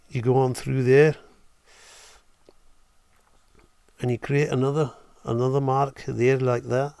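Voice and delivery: put-on Scottish accent, slightly punchy. Streamer narrates a drawing demo for his viewers, Scottish accent. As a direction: talk through the steps in a Scottish accent. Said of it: "let's do this in Scottish".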